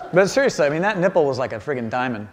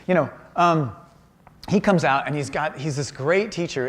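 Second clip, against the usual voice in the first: usual speaking voice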